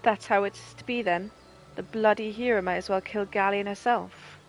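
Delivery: a hint of a proud, gruff rebel leader; mild acted captain, close to own voice; lightly voiced captain Meffred. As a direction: read it like a weary soldier. Meffred reacts angrily.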